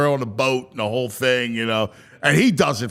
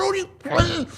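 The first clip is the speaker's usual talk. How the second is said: frustrated outburst; 13 semitones higher, 3 dB quieter than usual. Retold or imitated. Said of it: "and I'm going".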